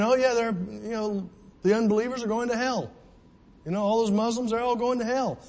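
breezy, careless, a bit fast; offhand mock believer; flippant mock Christian. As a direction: toss it off like it's nothing. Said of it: "we can just say it like that".

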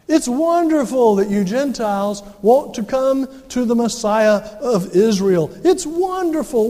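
a touch of sweet condescending welcome; mock Judaizer. Preacher imitates Judaizers welcoming Gentiles, mildly mocking.

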